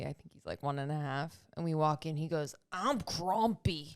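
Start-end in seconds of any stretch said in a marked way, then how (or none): 2.7-4.0 put-on slow, flat little-kid declaration; lightly voiced grumpy toddler. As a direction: say it like a sulky toddler announcing his mood. Toddler quoted saying grumpy.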